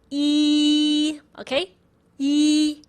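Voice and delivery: ee held long with the lips spread; model ee. Shown as a demonstration. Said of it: "First, you say".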